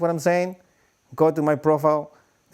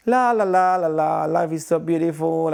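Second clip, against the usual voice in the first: carefree singsong. Retold or imitated. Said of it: "because you're like".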